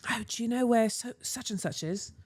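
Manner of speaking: imitated British woman asking directions; strong British accent. Flustered stranger asks the speaker for directions, strong British accent. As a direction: put on a thick British accent. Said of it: "in the strongest British accent".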